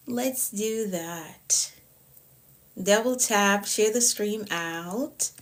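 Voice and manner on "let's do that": breathy whispered repeat, slow. Real, not acted. Coach murmuring to her live viewers, whispered. Repeats hype line to stream.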